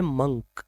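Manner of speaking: मंक with a short "uh" vowel; correct pronunciation. Shown as a demonstration. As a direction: say मंक as "munk". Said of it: "इसकी pronunciation है".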